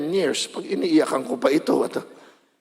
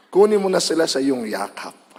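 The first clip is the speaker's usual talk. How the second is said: corrected with a laugh, said lower; laughing correction; 3 semitones lower than usual. Shown as a demonstration. Preacher correcting the joke prayer for the congregation. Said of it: "sabihin nyo".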